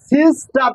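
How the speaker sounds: সিস্টার split as সিস and টার; broken into syllables. Shown as a demonstration. Teacher helps a struggling student, breaking সিস্টার in two. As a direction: hold সিস, then add টার separately. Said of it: "syllable ভাঙ্গি ভাঙ্গি করবা".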